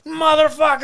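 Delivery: very high mock yell, stretched; imitated yelling. Neighbor turning to look at him, mock yell. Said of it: "yelling like this".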